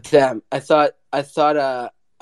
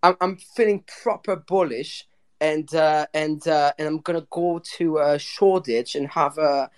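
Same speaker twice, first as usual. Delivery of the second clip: a lightly put-on British accent; bad British accent. Host mocked for his British accent performs it, bad British accent. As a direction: fake a British accent as a joke. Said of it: "the host's British accent".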